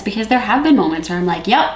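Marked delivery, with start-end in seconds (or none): 1.5-1.7 higher and louder, laughing at herself; overwhelmed self-quote. Retold or imitated. Worker quoting herself at her limit, laughing and overwhelmed. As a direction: play your own overwhelmed moment with a laugh.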